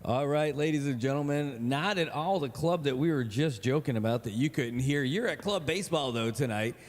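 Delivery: upbeat broadcast opener; announcer voice. Acted. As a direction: welcome the crowd like a ballpark host.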